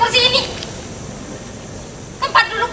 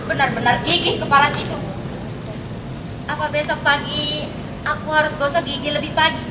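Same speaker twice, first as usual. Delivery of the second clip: grumbling to herself; 4 semitones lower, 6 dB quieter than usual. Acted. Lady grumbles alone after he leaves.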